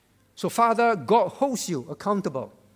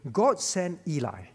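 unvoiced slip of the tongue; a whispered mistake. Real, not acted. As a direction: breathe the wrong name without voice. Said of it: "Eh, God sent Samuel".

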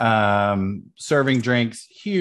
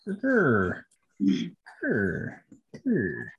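frustrated growl; 4 semitones higher, much slower than usual. Real, not acted. Game master hunts for a button.

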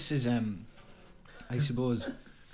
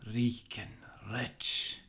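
an amateur Scottish brogue, declaimed with gusto; a modest Scottish accent, performing the poem for a friend. Acted. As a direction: recite Burns in a lightly put-on Scottish accent. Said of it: "excuse the poor Scottish voice, but I think it needs to be said in a Scottish voice".

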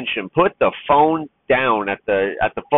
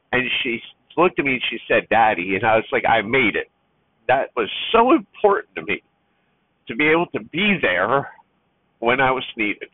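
holding back tears. Real, not acted. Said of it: "Sorry for the tears, folks".

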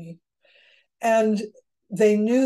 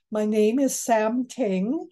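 very clear; slower than usual. Retold or imitated. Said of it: "says very clearly".

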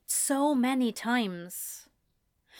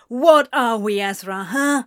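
loud demanding shout; 8 dB louder than usual. A narrator's reading. Anthony shouting at Ezra, loud and demanding. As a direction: throw the question at him hard. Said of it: "Anthony shouted".

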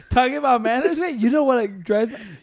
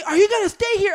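pitched up high and louder, pushy; retold louder question; 10 semitones higher than usual. Stranger opening the car door asking pushily, louder. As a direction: press the question like he's at your door. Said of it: "and they".

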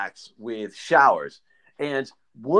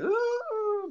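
high "ooh"; 6 dB quieter than usual. Retold or imitated. Wordless reaction to shower quarrel.

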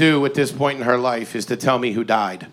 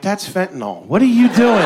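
alarmed; 5 semitones higher than usual. Acted. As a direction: drop it, then shout the question. Alarmed at aunt's bottle.

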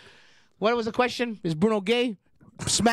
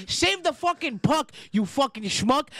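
mock rant; 2 semitones higher, slower than usual. Ranting at a hockey goalie.

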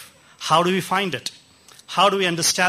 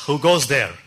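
lightly voiced booming bishop; a hint of thunder as the bishop calls out; thunderous bishop. Bishop calling to the boy knocking at his door, mildly thunderous. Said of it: "the bishop's thunderous voice comes".

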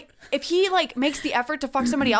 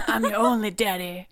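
deep firm voice; 4 semitones lower than usual. Retold or imitated. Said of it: "It's my dad voice".

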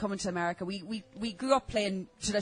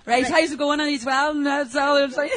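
Irish accent; 3 semitones higher, 6 dB louder than usual. Real, not acted. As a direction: own Irish brogue. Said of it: "they have Irish brogues, so just go ahead and talk".

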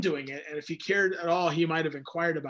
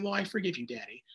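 put-on sweet little child voice; 8 dB quieter than usual. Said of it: "sweet little voice saying".

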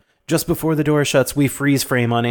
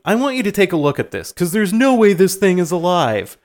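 raised cocky voice; brash know-it-all cop; 5 semitones higher, 3 dB louder than usual. Retold or imitated. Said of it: "and he's like".

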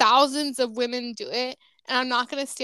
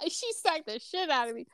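breathy whisper, much softer; hushed whisper; 7 dB quieter than usual. Retold or imitated. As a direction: drop to a secret whisper as you tell it. Quoting the smack, hushed.

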